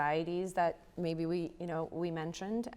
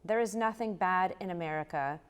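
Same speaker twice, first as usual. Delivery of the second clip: poetry reading; 3 semitones higher than usual. Acted. Poet reads poem Natasha.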